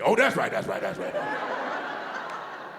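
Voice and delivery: slow, low mumble, trailing off to nothing; mock spaced-out mumble; mumbling crackhead. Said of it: "It's not like you were like".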